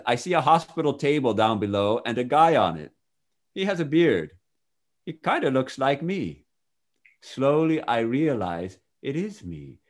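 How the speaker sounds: measured, expressive first-person storytelling; testimony read aloud. Acted. Reader shares a man's near-death account with listener, expressive reading. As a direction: read it out as a vivid account, phrase by phrase.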